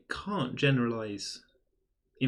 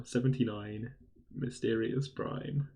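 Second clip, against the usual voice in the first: bingo caller; slower than usual. Shown as a demonstration. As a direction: call it out again, drawn out. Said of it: "That's my bingo call now".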